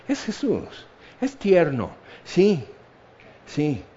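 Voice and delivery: high, soft cooing; mock tenderness. Onlookers misjudging gentle Jesus, mock tender. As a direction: coo as if over something harmless and sweet. Mimicking people who find Jesus harmlessly sweet.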